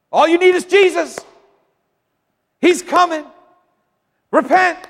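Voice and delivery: shouted high street-preacher call; crying out. Shown as a demonstration. Preacher showing how to cry out, loud high shout.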